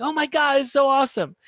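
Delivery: very high, loud gushing; excited. Shown as a demonstration. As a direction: squeal it with delight. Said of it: "be really excited back".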